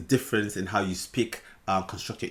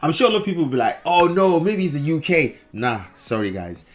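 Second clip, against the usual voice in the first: put-on British accent; 3 semitones higher, 4 dB louder than usual. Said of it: "Beautiful British English".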